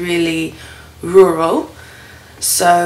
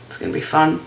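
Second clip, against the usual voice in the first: wheezy voice; faster than usual. Real, not acted. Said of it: "so I'm really wheezy".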